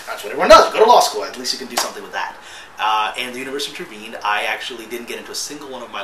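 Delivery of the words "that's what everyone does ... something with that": mock parental advice. Mocking everyone's standard advice.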